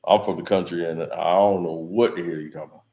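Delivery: a hint of Shannon bragging how tough he is; Shannon Sharpe impression. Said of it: "That boy is really country".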